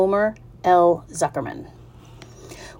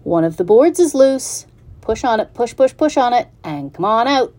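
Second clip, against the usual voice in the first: higher urging goose voice; chatty goose; 4 semitones higher, 4 dB louder than usual. Acted. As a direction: goose egging on the pig. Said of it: "who talked rather fast".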